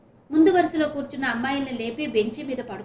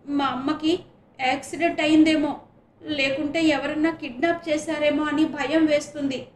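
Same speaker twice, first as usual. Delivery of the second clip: a touch of sobbing, loud and higher; 4 semitones higher, 5 dB louder than usual. A narrator's reading. Charitha tells the teacher her mother vanished, mild sobbing. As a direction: plead through tears for her missing mother. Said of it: "వెక్కుళ్ళు పడుతూ అంది".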